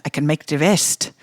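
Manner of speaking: put-on slipping Irish accent; lightly attempted Irish accent. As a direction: read it in a half-kept Irish accent. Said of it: "I'm losing my Irish accent here".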